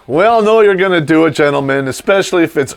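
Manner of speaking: ordinary talk, nothing marked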